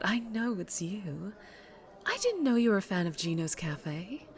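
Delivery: a lady crime boss, lightly voiced, silky and sure; smooth mob boss. Mob boss bidding her old employee goodbye, silky and sure. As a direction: purr it like she owns the room.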